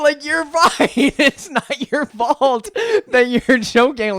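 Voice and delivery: high, loud, laughing reassurance; slow, loud, laughing through it. Retold or imitated. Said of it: "my whole family goes".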